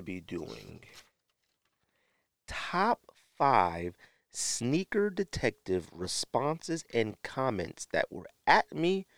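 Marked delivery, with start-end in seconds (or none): 2.5-6.8 very slow, high announcer read. Acted. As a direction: spell out the title like a showman. Reveals the list title.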